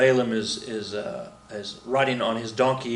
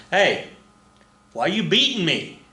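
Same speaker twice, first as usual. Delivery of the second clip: high, plaintive donkey voice; talking donkey; 6 semitones higher than usual. Retold or imitated. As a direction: play the hurt donkey, pitched up. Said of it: "the donkey says".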